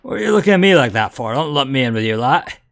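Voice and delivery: quick Cockney challenge; Cockney crook. Acted. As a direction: throw it out as a Cockney tough. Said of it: "they are Cockney".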